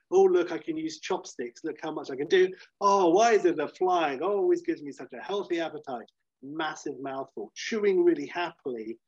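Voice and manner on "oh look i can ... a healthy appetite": mock cheerful Clark. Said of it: "going kind of like".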